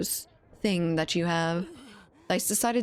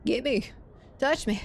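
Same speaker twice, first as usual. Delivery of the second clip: man down shout; 7 semitones higher than usual. Real, not acted. Downed in game, begging for revive.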